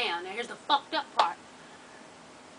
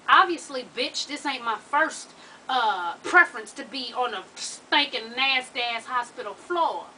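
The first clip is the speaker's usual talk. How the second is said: slow angry retort; 4 dB louder, slower than usual. Retold or imitated. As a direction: drag each word out, loud and fed up.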